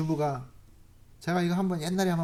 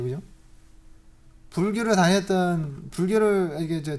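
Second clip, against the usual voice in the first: ordinary talk, nothing marked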